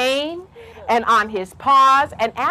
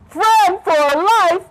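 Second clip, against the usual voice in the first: big, slow, high-swooping disbelief; drawn-out mocking question; incredulous lion; 6 semitones higher, 4 dB louder, much slower than usual. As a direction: boom it slowly as an astonished lion. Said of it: "He said".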